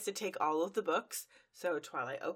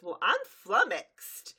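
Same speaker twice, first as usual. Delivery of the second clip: puzzled vet; 4 semitones higher, 7 dB louder, slower than usual. Retold or imitated. Vet character voiced in recap.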